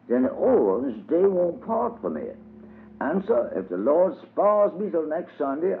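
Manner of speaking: a lightly voiced old country preacher, earnest. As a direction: preach it to Brother Daniel like a sermon. Old preacher Uncle Bob speaking.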